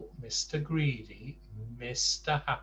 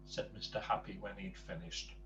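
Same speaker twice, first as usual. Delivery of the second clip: lively storybook read-aloud; reading to children. Acted. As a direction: tell the story to a child, playful. Reads a Mister Men book aloud.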